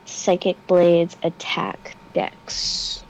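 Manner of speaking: whispered to herself while rolling; whispering. Real, not acted. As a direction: mutter it under your breath.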